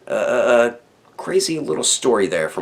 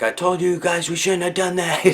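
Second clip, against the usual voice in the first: high, whiny mock-crying kid voice; whiny crying cousin; 12 semitones higher than usual. Mocking the scared younger cousin, high whine. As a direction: imitate a panicked little cousin wailing. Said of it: "my cousin's, like, freaking out and crying".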